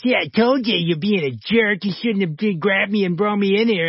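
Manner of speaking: lightly voiced jeering boy; mocking bully kid. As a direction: sneer it like a playground bully. Bully kid mocks the dad.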